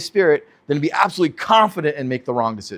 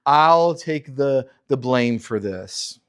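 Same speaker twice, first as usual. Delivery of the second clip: coddling mother; 3 semitones lower than usual. Retold or imitated. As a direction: coo it like a doting mom. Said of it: "The coddling".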